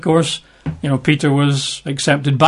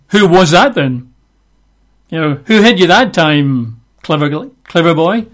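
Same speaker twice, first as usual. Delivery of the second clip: lightly mocking taunt; mild mockery; 2 semitones higher, 3 dB louder than usual. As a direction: taunt him like a heckler, lightly. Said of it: "they're mocking him".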